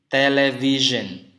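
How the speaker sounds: "television" slowly, with a buzzing zh in -sion; voiced ZH example. Shown as a demonstration. Teacher giving the example word, slow and carefully voiced. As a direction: draw out "television", voicing the s as zh. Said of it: "Contohnya jadi".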